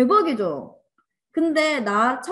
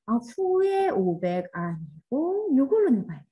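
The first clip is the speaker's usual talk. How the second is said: slow self-talk. Shown as a demonstration. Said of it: "감정을 써보면 돼요".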